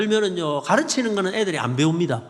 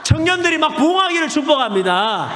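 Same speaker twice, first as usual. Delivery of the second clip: louder, higher, shouted blessings; preaching at full force; 4 semitones higher, 4 dB louder than usual. Real, not acted. Preacher blessing the church and town, shouted proclamation.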